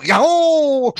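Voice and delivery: loud, high acted yahoo; yelled whoop. Pilot tells Fred what he hoped to hear, yelled whoop. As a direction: yell it out like a thrill-ride whoop. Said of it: "to get you to yell out".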